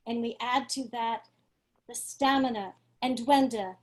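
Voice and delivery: measured, dramatic stage introduction with weighted pauses; theatrical introduction. Real, not acted. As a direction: introduce the poets theatrically, phrase by phrase. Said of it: "felt very theatrical and cinematic".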